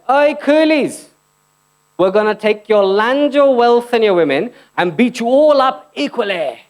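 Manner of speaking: high, slow sneering colonial officer; mock British colonizer. Comic playing a British colonizer to the crowd, slow high mock sneer. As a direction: drag it out like a pompous British raider.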